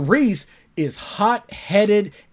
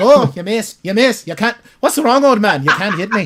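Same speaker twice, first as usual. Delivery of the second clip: mock Irish accent, much slower; 3 dB louder than usual. Describing how Reese teases Bryce, the speaker quotes Reese, imitating an Irish accent. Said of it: "It's like an Irishman right there".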